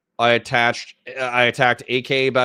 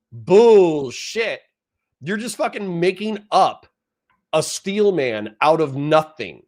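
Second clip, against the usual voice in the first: angry rant; 5 semitones higher than usual. Real, not acted. Streamer ranting at a chatter.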